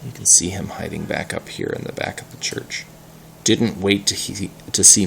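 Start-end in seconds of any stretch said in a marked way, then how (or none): 0.1-2.8 soft fast whisper; whispered aside. Real, not acted. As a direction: whisper where he's hiding. Aside about hidden Peter.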